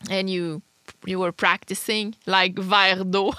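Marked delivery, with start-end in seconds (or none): 2.6-3.3 teaching verre d'eau the Quebec way; Quebec French verre d'eau. Shown as a demonstration. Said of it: "to teach you some words".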